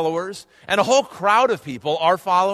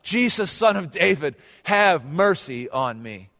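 mild retold cry for mercy; measured imitation of a cry for help; slower than usual. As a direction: call out, drawing out the plea. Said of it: "he cried out".

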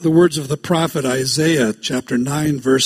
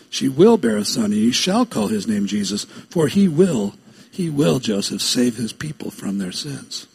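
"will" and "shall" punched, falling away after; stress on WILL and SHALL; 5 semitones lower than usual. Shown as a demonstration. Angel assuring Joseph of the son's mission, stressing "will" and "shall". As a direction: lean on each "will" and on "shall". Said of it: "put the emphasis on the right syllable".

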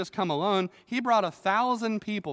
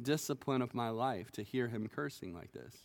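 softer, lower, calm acceptance; restrained reply; 3 semitones lower, 4 dB quieter than usual. Retold or imitated. David answers his soldier, calm and restrained. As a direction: speak it quietly, humbly accepting. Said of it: "showed a lot of restraint and said".

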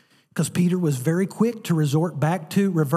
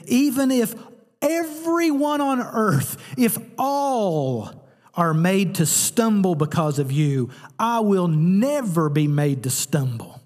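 bragging; 2 semitones higher, slower than usual. Acted. Peter bragging to Jesus he will never stumble, slow boastful vow. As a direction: brag it slowly, chest out. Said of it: "it's like he's bragging to him".

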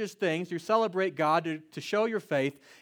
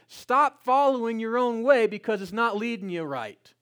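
preaching urgency; 3 semitones higher, 4 dB louder than usual. Retold or imitated. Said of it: "That's what Peter says".

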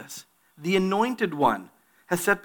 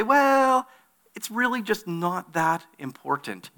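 dismissive shrug; 4 semitones higher than usual. Retold or imitated. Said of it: "Could we maybe say".

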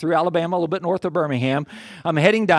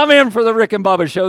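eager enthusiasm; 5 semitones higher, 7 dB louder than usual. Retold or imitated. Acts out eager reaction to radio.

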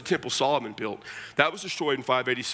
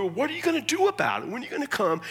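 eager disciples; 9 semitones higher, faster than usual. Retold or imitated. Voicing disciples questioning Jesus.

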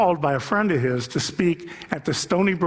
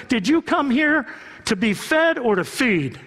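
voice of God challenging; 7 semitones higher than usual. Acted. God confronting Dick at the school, booming rebuke. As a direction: confront him with the question.

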